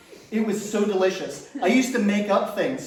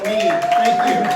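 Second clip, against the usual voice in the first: high, loud, squeaky "Thank you"; shrieked, hammed-up "Thank you"; squealed thank you; 6 dB louder than usual. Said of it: "mock self-applause thanks".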